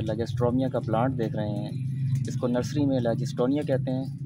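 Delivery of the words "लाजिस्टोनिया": लाजिस्टोनिया with a j sound and a "-toniya" ending; the nurseries' "j" version, लाजिस्टोनिया; nursery mispronunciation. Shown as a demonstration. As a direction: say लाजिस्टोनिया as "la-jis-TO-niya", no r. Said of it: "जो कि गलत है".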